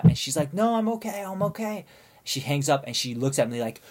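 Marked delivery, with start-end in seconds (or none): 0.5-1.8 higher, breezy brush-off; drunk girl. Retold or imitated. Drunk friend telling her mom she is fine, breezy. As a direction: wave off mom's worry.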